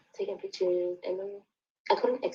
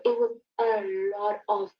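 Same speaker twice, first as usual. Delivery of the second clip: near tears; 3 semitones higher, 5 dB louder, slower than usual. Real, not acted. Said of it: "upset recounting the cheating".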